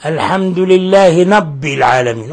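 نب with an n in place of the r; mispronounced rabb, said as نب; ra turned nun. Shown as a demonstration. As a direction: demonstrate the slip الحمد لله نب العالمين, n for r. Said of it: "أو نون".

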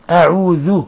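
أعوذ with a thin, unemphatic ذ; light dhal. Shown as a demonstration. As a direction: say أعوذ keeping the ذ light, tongue between the teeth. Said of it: "لا تفخم الذال".

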